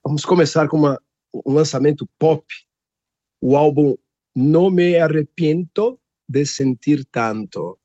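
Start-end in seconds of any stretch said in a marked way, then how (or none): 3.4-7.8 put-on reads the Spanish title in a Colombian Spanish accent, a little slow; a light, playful Colombian Spanish accent on the album title. Radio host announcing a Colombian album, in a playful Colombian Spanish accent. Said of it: "gostei do seu sotaque".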